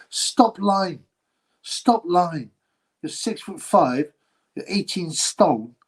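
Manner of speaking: slow, spaced-out mock scolding; exasperated disbelief. Streamer telling the tearful boxer to stop pretending, exasperated. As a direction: call him out phrase by phrase.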